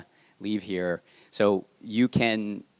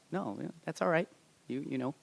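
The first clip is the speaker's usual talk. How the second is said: soft, higher-pitched soothing reply; gentle reassurance; 7 semitones higher, 6 dB quieter, faster than usual. Retold or imitated. Panel host voicing a reply to apologetic volunteers, gently reassuring. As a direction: let them off lightly and softly.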